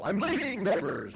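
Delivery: mock announcement to the whole street, pitched high; calling out. Husband tells the neighbors he is leaving, high calling out. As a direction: call it out so the neighbors hear.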